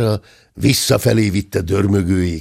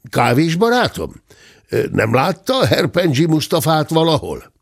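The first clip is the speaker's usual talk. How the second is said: calling out; 5 semitones higher than usual. Acted. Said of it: "Majd fölkiáltott".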